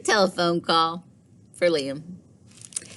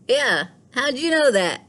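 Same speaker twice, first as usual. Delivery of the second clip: higher, louder delighted surprise; amazed boy; 8 semitones higher, 4 dB louder than usual. Acted. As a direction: sound amazed and pleased. Thomas amazed.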